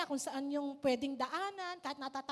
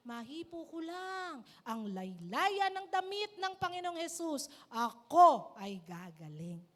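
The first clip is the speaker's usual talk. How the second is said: hopeful inner vow; 4 dB louder, slower than usual. Acted. A sick woman vowing she will be healed, slow and earnest. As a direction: swear it to yourself, slowly.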